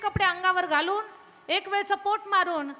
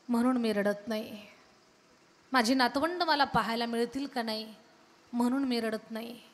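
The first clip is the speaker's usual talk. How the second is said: put-on old father's sorrowful reply; 5 semitones lower than usual. Old father answers his son.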